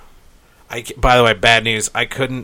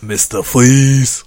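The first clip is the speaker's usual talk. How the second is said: shouted Mister Fleas; 4 dB louder, slower than usual. Pretend. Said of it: "I'm Austrian".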